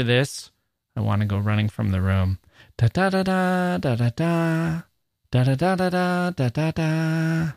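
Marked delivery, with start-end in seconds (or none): 2.8-7.5 higher, lilting mock poetry-reading voice; sing-song poet reading aloud, mocked; mock poetic reading voice. Shown as a demonstration. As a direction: parody the precious poetry-reading voice. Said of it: "There's this poetic voice".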